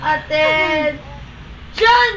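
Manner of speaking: very slow, drawn-out command; drill sergeant. Pretend. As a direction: stretch the order out like a drill sergeant. Commanding a pet to stand.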